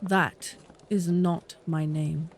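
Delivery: high, slow, icy correction; cold. Acted. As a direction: correct him coldly, softly and deliberately. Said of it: "she said coldly".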